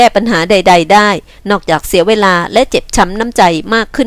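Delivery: firm, lightly voiced man; earnest consoling man. Man consoles a weeping woman, earnest and firm. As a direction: urge her firmly to stop crying.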